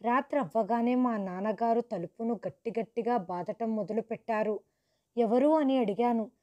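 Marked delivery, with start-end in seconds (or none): 5.2-5.5 louder call through the door. Retold or imitated. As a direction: call out to the knocking. Calling through door at night. (తలుపు దగ్గర గట్టిగా అడగటం)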